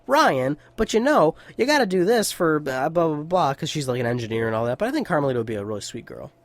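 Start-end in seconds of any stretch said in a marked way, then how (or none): 0.0-3.5 higher-pitched, teasing know-it-all voice; mock smart-ass girlfriend. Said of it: "she might be a smart ass".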